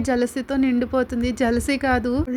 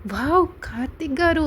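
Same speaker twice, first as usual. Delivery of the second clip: mildly mocking; 3 semitones higher than usual. A narrator's reading. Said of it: "కొంచెం ఎగతాళిగా నవ్వి".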